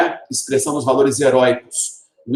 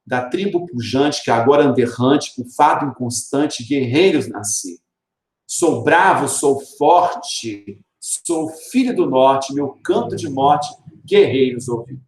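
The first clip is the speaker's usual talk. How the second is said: poem recitation. Acted.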